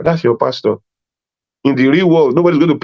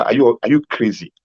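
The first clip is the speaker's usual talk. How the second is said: mock scolding the girlfriend; 2 semitones higher than usual. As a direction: play shocked boyfriend telling her off. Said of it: "you will tell her".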